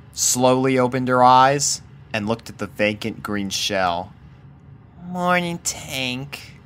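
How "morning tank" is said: quiet. A narrator's reading. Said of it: "she said quietly".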